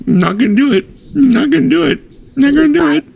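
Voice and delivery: very high, choked-up mock whimper; fighting back tears. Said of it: "sitting there trying to be like".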